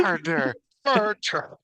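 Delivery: the broken toy bear shrieking; mock panicked cry. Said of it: "the bear's like".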